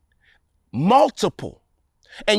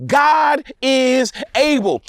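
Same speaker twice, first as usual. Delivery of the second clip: preaching shout; 6 semitones higher, much slower than usual. Real, not acted. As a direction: belt it out high and slow like a climax. Preacher driving home a point.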